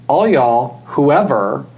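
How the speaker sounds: sincere plea. Retold or imitated. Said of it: "And so I say".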